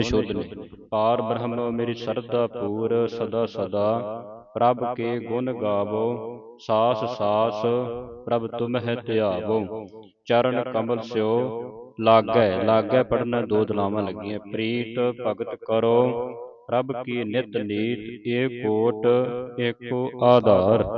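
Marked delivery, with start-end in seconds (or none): 0.9-12.5 slow, drawn-out reading of verse; scripture recitation. Acted. 14.4-20.8 slow, drawn-out reading of verse; scripture recitation. Acted.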